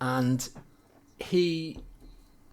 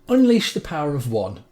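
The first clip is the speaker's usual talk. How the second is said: mock-epic read-out, building louder; grandiose proclamation; 8 dB louder than usual. Employee reading his company review, grandiose and loud. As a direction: declaim it like a warrior's vow.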